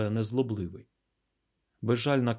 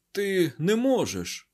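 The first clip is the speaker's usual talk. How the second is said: drawn-out, high, louder protest; weak hoarse cry; 9 semitones higher, 5 dB louder, slower than usual. Acted. Garuda protesting to the scientist, weak hoarse cry. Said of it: "хрипко промовив він".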